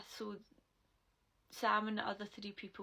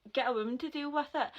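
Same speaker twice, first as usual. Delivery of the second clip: higher, louder and fast; a louder, quicker retold scolding; retold angry shout; 5 semitones higher, 8 dB louder, faster than usual. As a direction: snap it at him.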